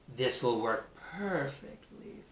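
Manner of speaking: slow, smug snake voice; smug snake thought. Acted. Snake sure his trick will work, slow and smug. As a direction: savor the plan slowly. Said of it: "thought Snake".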